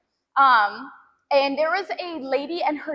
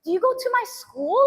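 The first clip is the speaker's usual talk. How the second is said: much higher, innocent question; sweet girl; 9 semitones higher than usual. Retold or imitated. The daughter asks her if she goes to her school, high and innocent. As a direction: ask it like a sweet young girl. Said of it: "she comes up to me and she's like".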